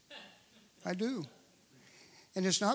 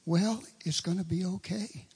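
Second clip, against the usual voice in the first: soothing; 3 semitones higher than usual. Retold or imitated. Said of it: "you can hear this in her voice".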